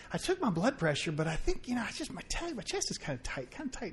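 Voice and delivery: barely getting the words out, lightly voiced; weak sick voice. Friend in bed quietly complaining of a tight chest, faint and strained.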